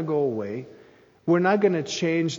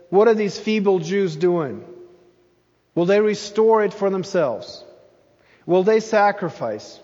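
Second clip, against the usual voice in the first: mocking; 4 semitones higher, 4 dB louder than usual. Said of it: "Sanballat in verse two mocks the Jews".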